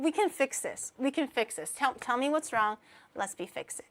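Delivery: softening, soothing reassurance; gentle reassurance. Shown as a demonstration. To crying viewers as a demo, gentle reassurance. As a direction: settle down and calmly console. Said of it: "That's how I'd approach it".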